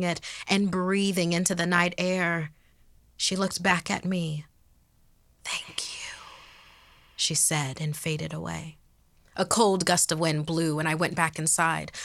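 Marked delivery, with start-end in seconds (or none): 5.4-6.2 soft, voiceless whisper; ghostly whisper. Acted. Freed ghost thanking the girl, whispering. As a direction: whisper it like a departing spirit. Ghost's last words before fading away.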